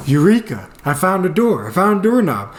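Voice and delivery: high, excited mock triumph; acted discovery. Trapped man finally finding a door, excitedly triumphant. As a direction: exclaim it like a comic breakthrough.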